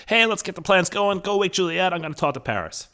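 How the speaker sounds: high-pitched mocking paraphrase; mock summary voice. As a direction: parody the characters in a high voice. Mock summary of characters' chatter.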